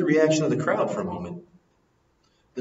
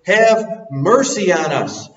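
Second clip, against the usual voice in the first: slow, loud plea; crying out for mercy; 3 semitones higher, 6 dB louder, slower than usual. Retold or imitated. Blind men cry out to Jesus, slow loud plea. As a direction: beg with the whole chest. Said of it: "they cried out to Jesus".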